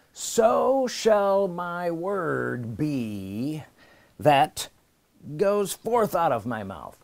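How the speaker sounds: slow, weighty reading of the verse; scripture read slowly. Acted. Preacher reading Isaiah aloud to the congregation, slow and weighty. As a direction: let each word of scripture land.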